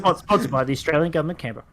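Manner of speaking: quick ad-disclaimer read; fast disclaimer. Pretend. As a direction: rattle it off like small print at an advert's end. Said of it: "You gotta be really fast".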